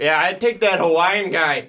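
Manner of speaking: lightly hammed-up clueless general manager; mock Ryan Pace. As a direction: play the oblivious GM. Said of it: "so it'd probably be like".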